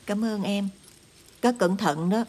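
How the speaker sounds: hạ giọng, nhỏ nhẹ cảm ơn; trầm và khẽ dặn dò em. Acted. Chị cảm ơn em. (giọng nhỏ nhẹ, biết ơn)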